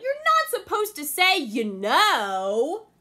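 angry Anansi. Acted. Anansi scolding the deer, angry and high. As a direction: scold her hard.

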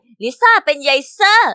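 loud, slow shout; drawn-out loud call into the rock. Acted. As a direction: bellow it into the rock slowly. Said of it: "แล้วก็ตะโกนใส่".

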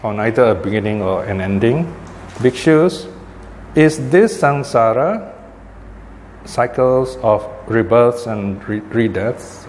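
slow, measured sutra recitation; scripture reading. Acted. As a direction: read the sacred text out slowly, phrase by phrase. Reads scripture aloud to class.

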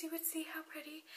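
soft unvoiced whisper. Vlogger showing her ring to viewers, whispered. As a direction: breathe it out admiringly. Camera won't focus on ring.

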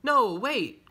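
high, loud protest; crying out. Acted. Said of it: "cried Henry".

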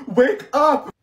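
loud wake-up yell; shouting. Real, not acted. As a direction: shout her awake. Yelling at dazed classmate.

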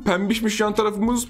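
ordinary talk, nothing marked

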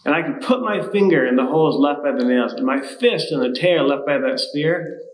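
screaming. Acted. Thomas screaming his ultimatum at the disciples. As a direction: scream the conditions at them. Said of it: "So I screamed at them".

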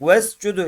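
"Vescudu" with a short e joined straight to the s; short first vowel in "Vescudu", closed on the s. Shown as a demonstration. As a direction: go directly from ve into s in "Vescudu". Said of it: "sine tutturacağız direkt".

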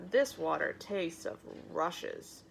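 slow, mildly disgusted exclamation; exclaimed complaint. Acted. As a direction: draw out the complaint with distaste. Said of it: "he exclaimed".

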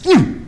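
short, high "hmm" of effort; mouse's effort grunt. Acted. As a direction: grunt like a tiny climber hooking a claw. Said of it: "this little mouse goes".

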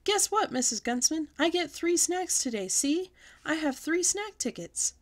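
put-on high, loud, eager kid voice; excited bragging. A narrator's reading. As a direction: show off the tickets with glee. Junie B bragging to milk lady.

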